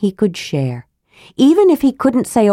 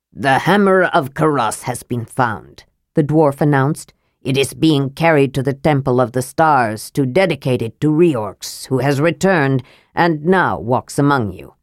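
put-on lower, solemn old dwarf voice; elderly dwarf's announcement; 5 semitones lower than usual. Old dwarf announcing to the gathered clans, solemn. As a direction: proclaim it gravely to the crowd.

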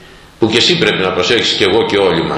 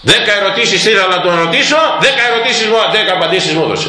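high, astonished report; amazed youth; 8 semitones higher, faster than usual. Retold or imitated. The boy tells in amazement that his ten questions were answered. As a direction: marvel at it, voice lifted high.

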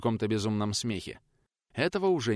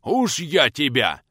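huffing threat; 4 semitones higher, 7 dB louder, much slower than usual. Acted. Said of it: "засопел в ответ тот".

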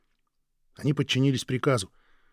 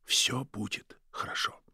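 soft unvoiced comfort; whisper; 6 dB quieter, slower than usual. Dying wife soothing her weeping husband, whispering. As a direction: breathe it to him gently. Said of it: "прошептала она".

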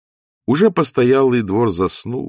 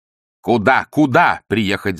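louder, urgent demand; jealous Ostap shouting at Zosya; 6 dB louder, slower than usual. A narrator's reading. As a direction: cry out in alarm. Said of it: "закричал Остап".

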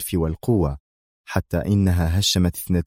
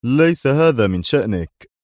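resentful; 4 semitones higher than usual. A narrator's reading. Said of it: "أجابه دوايت في حنق".

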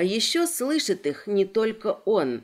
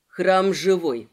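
gentle; 4 semitones lower, 4 dB louder, slower than usual. Acted. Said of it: "говорит-то мягко, ласково, как с больными".

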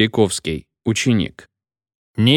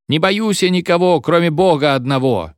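in ecstasy; 7 semitones higher than usual. A narrator's reading. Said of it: "ответил Харюзин в экстазе".

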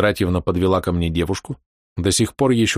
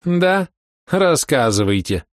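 cheeky laugh; 8 semitones higher, slower than usual. A narrator's reading. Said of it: "развязно засмеялась".

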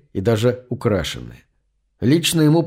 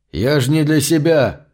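heated protest; 3 semitones higher than usual. Acted. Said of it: "горячо возразил Хеслер".

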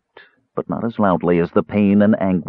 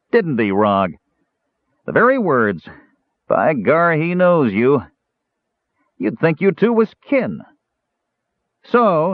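higher dwarf voice, crowing; gloating dwarf; 6 semitones higher than usual. Acted. Dwarf tells Caramon his friends will die, higher crowing voice. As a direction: let the dwarf enjoy every word.

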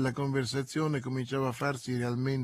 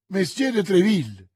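higher and louder, amazed; surprised exclaim; 6 semitones higher, 9 dB louder than usual. A narrator's reading. The novice startled by Treville's name, surprised cry. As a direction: gasp the name out in wonder. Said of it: "esclamò la novizia".

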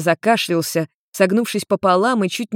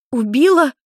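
high, louder alarmed question; panicked echo; 7 semitones higher, 3 dB louder than usual. A narrator's reading. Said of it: "переспросила Майми в панике".

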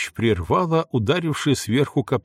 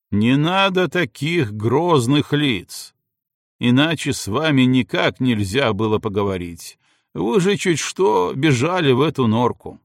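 mocking shout; 3 semitones higher than usual. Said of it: "мужским голосом крикнула; В голосе его слышалась издёвка".

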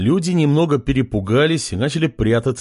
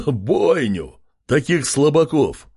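mocking laugh; 4 semitones higher, slower than usual. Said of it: "рассмеялся король".

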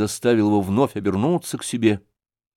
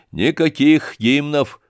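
calmly; 5 semitones higher, slower than usual. Acted. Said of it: "сказал спокойно".

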